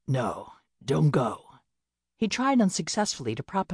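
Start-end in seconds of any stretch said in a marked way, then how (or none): 0.1-1.6 weak injured man. Acted.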